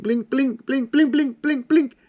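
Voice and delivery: mock panic. Mock panic at time flying.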